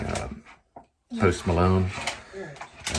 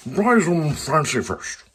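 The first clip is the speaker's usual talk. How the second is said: higher, very slow epic tagline; dramatic trailer voice; 7 semitones higher, much slower than usual. Pretend. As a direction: sell it like a movie trailer.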